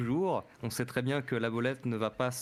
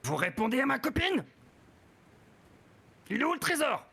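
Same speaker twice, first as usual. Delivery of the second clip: high yelping fox voice; 11 semitones higher than usual. Acted. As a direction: yap it out like a fox. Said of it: "et qui glapit".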